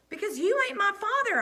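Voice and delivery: loud, high angry snap; snapped. A narrator's reading. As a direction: lash out at the coach. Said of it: "I snapped".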